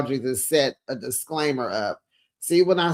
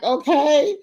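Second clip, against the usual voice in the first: much higher "Okay" through laughter; laughing reaction; 10 semitones higher, 4 dB louder than usual. Real, not acted.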